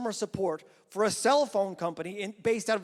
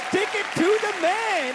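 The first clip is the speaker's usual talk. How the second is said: pitched higher and louder, pumping the crowd; louder repeat; 8 semitones higher, 5 dB louder than usual. Shown as a demonstration. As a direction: say it again with more punch. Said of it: "We are saying".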